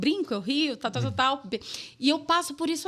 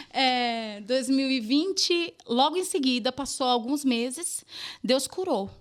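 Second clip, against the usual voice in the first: ordinary talk, nothing marked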